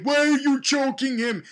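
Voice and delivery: hammed-up exasperated why; mock Sarah. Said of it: "Sarah Connor's like".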